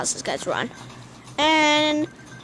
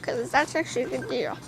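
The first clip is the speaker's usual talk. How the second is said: put-on voice; 2 semitones higher than usual. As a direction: push the voice up and keep it there. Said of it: "this voice for a whole minute".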